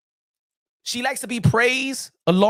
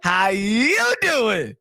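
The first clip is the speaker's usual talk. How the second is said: laughing; much slower than usual. Real, not acted. Rasputia voice with laugh.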